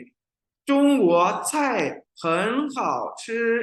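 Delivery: 中国菜很好吃 with 很 in second tone and 好 in third; fluent reading with tone sandhi. Shown as a demonstration. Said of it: "fluently बोलते हैं".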